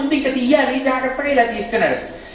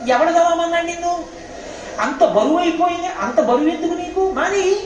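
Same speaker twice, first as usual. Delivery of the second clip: mocking retort; 6 semitones higher than usual. Mocking the man who vowed prayers.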